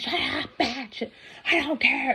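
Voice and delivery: high, mocking dismissal; dismissive ex. Narrator voices her ex brushing off the bystander, high mocking. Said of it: "So I'm like".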